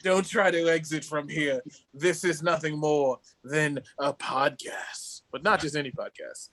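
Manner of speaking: lightly put-on British podcast intro; mock-British, measured and dramatic; British accent. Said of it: "it's a British podcast?".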